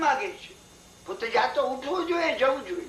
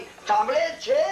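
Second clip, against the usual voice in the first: mild calling out; 4 semitones higher, slower than usual. Retold or imitated. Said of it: "ભટજીએ બૂમ પાડી".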